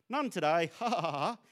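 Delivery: imitating dad's pleased-with-himself joke; dad's joke laugh. Dad answering the door to his child, mock laughing. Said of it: "Why does he laugh".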